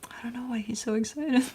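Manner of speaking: soft whisper to the viewers; whispered aside. Real, not acted. Telling viewers about the excited dog, soft whisper. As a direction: hush it as an aside.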